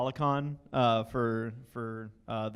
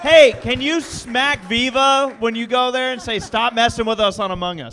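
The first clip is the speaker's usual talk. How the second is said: loud joking plea; 10 semitones higher, 13 dB louder than usual. Real, not acted. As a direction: call out the favour with a grin. Host shouts request to guest.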